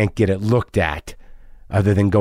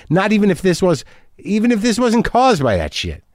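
emphatic; 9 semitones higher than usual. Real, not acted. Emphatic rant about quitting.

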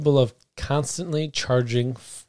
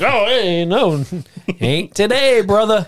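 tough guy voice; 8 semitones higher, 5 dB louder, slower than usual. Retold or imitated. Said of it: "And he's like".

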